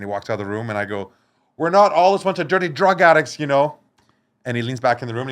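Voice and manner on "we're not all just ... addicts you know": louder, higher protest; indignant retort. Retold or imitated. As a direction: fire back at him. Retorting to the cop.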